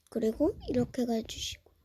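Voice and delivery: soft whisper. Real, not acted. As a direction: whisper the directions. Soft instructions. (속삭이며)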